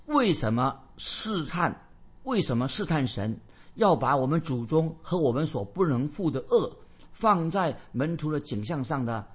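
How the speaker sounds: slow, emphatic questioning from scripture; drawn-out rhetorical question read as verse; solemn scripture reading. Acted. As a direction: declaim the apostle's challenge deliberately. Reads the apostle's verse.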